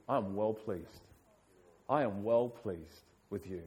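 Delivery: low, quietly reassuring voice; gently affirm, as a father to a child; tender fatherly approval. Acted.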